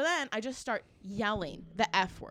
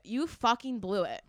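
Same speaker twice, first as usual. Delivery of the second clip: slower, weightier accusation; slow emphatic repeat. Retold or imitated. Shopper tells the manager off, retold slow accusation. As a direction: stretch out "fucking blew it" for emphasis.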